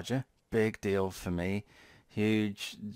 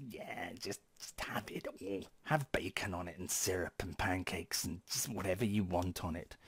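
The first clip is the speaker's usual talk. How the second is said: soft, half-whispered Microsoft offer; mock-casual, dropping to a near whisper; offhand murmur; 7 dB quieter than usual. Acting out Microsoft offering everything.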